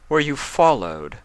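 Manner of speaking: shadowy figure. Acted. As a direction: question the spy from the shadows.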